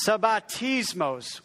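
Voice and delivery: lightly Italian-sounding sabbatismos, slow; teaching a word with a playful Italian lilt; Italian-flavoured Greek. Shown as a demonstration. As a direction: roll out "sabbatismos" with a mock Italian flair. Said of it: "that's kind of Italian accent".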